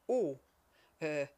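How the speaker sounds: loud, good-humoured hesitation; happy, teasing giant; cheerful grin. A narrator's reading. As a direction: say it through a grin. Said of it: "grinste der Bartriese fröhlich".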